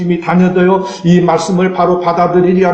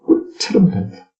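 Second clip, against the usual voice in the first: soft delighted murmur; 5 dB quieter, slower than usual. Pretend. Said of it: "이 체험하시기 바랍니다".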